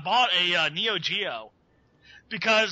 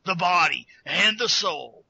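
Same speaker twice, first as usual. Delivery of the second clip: Alex Jones marketing voice. Acted. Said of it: "the Alex Jones marketing voice".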